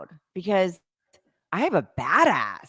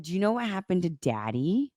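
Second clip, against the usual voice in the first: very serious; 6 dB quieter than usual. Retold or imitated. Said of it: "Very serious".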